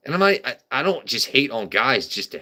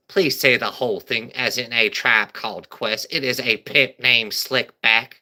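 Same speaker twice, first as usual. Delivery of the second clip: Cat Williams impression. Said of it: "He's like".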